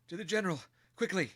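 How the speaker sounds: high, loud call to arms; rally the men to the general; urgent shout. Acted. Lieutenant urging his men toward the general, loud and high.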